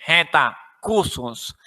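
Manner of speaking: low, formal flight announcer voice; over the intercom. Pretend. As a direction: airport boarding call announcement. Mock airline boarding announcement.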